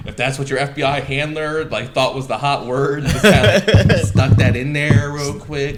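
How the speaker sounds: high, baffled disbelief; puzzled, half-laughing; incredulous. Retold or imitated. Retold incredulous reaction.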